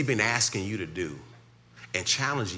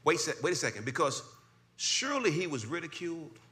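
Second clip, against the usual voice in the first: much higher, louder fervent preaching; preaching at full force; 13 semitones higher, 6 dB louder than usual. Acted. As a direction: whip the congregation up.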